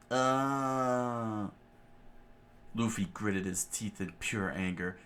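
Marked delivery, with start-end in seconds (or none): 0.1-1.5 short raised cry of pain; a sharp pained yelp; scream of pain. A narrator's reading. Jin's shoulder is crushed, short pained cry. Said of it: "Jin screamed out in pain".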